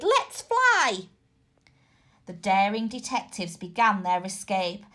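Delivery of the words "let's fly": urgent. A narrator's reading.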